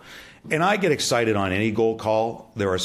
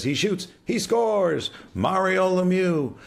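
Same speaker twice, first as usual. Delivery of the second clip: much higher, slow, drawn-out goal call; imitating Dan Kelly's goal call; 12 semitones higher, 3 dB louder, slower than usual. Sportscaster recreating a famous goal call, slow and high. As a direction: stretch it out like a classic hockey announcer. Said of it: "before Dan Kelly says".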